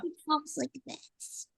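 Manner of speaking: high, soft little-girl imitation; little tiny voice. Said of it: "this little tiny voice".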